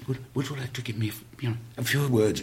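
a hint of a tender vicar; soft vicar. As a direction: vicar quietly asking a dying man for words. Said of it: "he's going".

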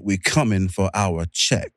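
slow, low late-night radio voice; slow it down like a smooth DJ; Quiet Storm voice. Pretend. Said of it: "In his Quiet Storm voice".

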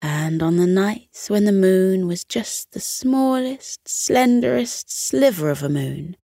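soothing read-aloud voice; bedtime story narration. A narrator's reading. Bedtime story narration over music.

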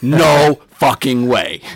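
slow, laughing disbelief; mock disbelief. Hearing the speaker was the old mascot, slow laughing disbelief. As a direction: draw it out, laughing in shock. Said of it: "I was like".

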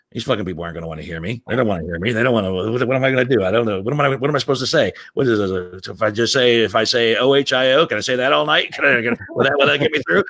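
anxious, rushed muttering; nervous. Retold or imitated. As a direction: panicky pacing worry. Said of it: "he was nervous".

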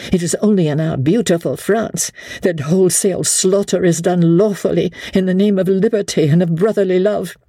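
a worried wife reining in a friend's rash idea; anxious noblewoman. Acted. Marguerite answers Sir Andrew.

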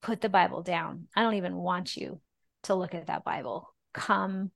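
soft, quiet invitation as God's voice; gentle inner voice. Retold or imitated. God's voice inside her inviting her to sit, gently and quietly. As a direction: coax her softly to sit and rest. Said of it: "a voice inside of me say".

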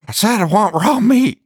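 high mock villain voice demanding raw meat. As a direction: squeak it out like the creepy actor. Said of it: "It's just higher pitch".

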